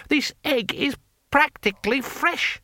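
slow, very high outraged complaint; indignant customer. Acted. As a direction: spell out the outrage slowly, pitched high. Customer complains about the egg.

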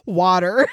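"water" set off after a pause, punched out; "water" isolated and stressed; quoted emphasis on water. Retold or imitated. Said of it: "She put quotations around water".

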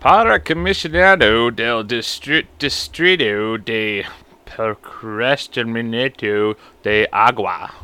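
mock Spanish. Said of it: "I can't even read half this shit".

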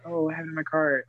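mock calm. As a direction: say it casually, as if totally unbothered. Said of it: "Adrian was not that calm".

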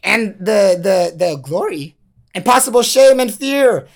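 high, loud hammed-up doom voice; mock-sinister high villain; gleeful menacing figure. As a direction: taunt them like a cackling cartoon villain. Menacing character voice taunting listener.

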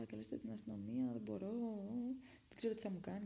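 understated imitation of frightened pleading; retold desperate plea. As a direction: re-enact begging a stranger, hushed. Retold plea to call the police.

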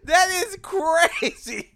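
loud, high and drawn out; appalled disbelief. Retold or imitated. Storyteller reacting to his friend's remark, appalled. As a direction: stretch it in scandalized amazement.

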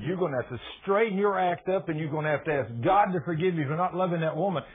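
preacher rebuking the man in the wheelchair, shouting; retold rebuke. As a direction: scold him hard and rise to a shout. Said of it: "I said".

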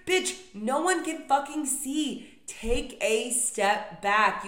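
loud, slow, fed-up scolding; exasperated rant. Real, not acted. Ranting at travelers crowding the belt, fed-up scold. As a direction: snap at the crowd to step back.

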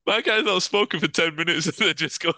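talking through laughter; words breaking up with giggles; laughing. Real, not acted. Laughing fit on podcast.

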